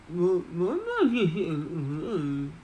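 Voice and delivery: muffled goblin chuckle around food; mouthful mumble; mumble through a mouthful. Acted. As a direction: try to talk with a full mouth. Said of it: "his mouth is just full".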